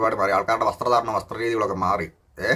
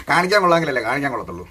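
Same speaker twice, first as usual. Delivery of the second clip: laughing; 3 dB louder, faster than usual. Real, not acted. Laughing through the punchline.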